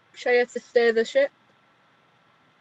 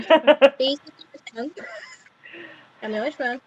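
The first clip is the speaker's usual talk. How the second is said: whiny pleading. Acted. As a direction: beg the friend to open up. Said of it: "I will stop being whiny".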